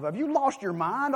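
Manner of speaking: high-pitched mock yell; retold screaming. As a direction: act out a worked-up rant, not full volume. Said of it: "I'm screaming at him".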